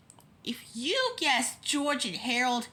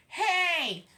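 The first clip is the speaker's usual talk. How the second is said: high but mild hey; half-shouted cry from the crowd; lightly acted outcry; shouted call; 6 semitones higher than usual. A narrator's reading. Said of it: "with people shouting from".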